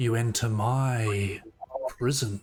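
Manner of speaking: rasping, long-unused voice, drawn-out my. A being long silent speaks into your mind, in a raspy voice. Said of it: "almost a raspy voice, like it hasn't spoken for centuries".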